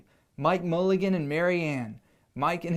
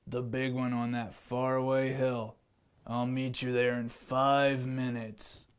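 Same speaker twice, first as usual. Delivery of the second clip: lion voice; 4 semitones lower, 4 dB quieter than usual. Acted. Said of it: "said the lion".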